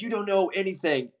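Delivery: high, scornful put-down; imitating a scornful scrub tech; contemptuous jab. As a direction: sneer it down at him, pitched high. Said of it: "and he's like".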